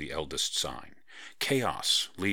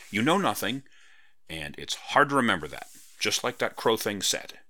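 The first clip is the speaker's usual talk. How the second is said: lightly voiced cheeky girl, a touch louder; teasing Parrot Girl; 3 semitones higher, 4 dB louder than usual. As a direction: poke fun at her friend, playful.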